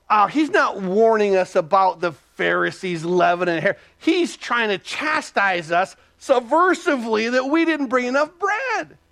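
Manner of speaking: imitated indignation climbing in pitch; mock grievance. Disciples think they are being chastised, rising mock grievance. Voices disciples' mistaken, aggrieved thought.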